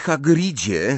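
a touch of shy hesitation; timid. A narrator's reading. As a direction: timidly open with the name. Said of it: "zaczęła nieśmiało Hermiona".

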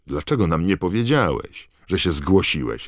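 loud, half offended, half thrilled yell; roaring. Acted. Fred yelling at Harry over the crowd, half offended. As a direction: bellow it at Harry, hurt but delighted. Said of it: "ryknął Fred".

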